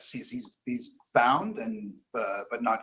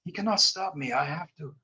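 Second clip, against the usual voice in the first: put-on softer, higher, pleading French Canadian accent; 5 semitones higher, 3 dB quieter than usual. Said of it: "French Canadian, uh, voice".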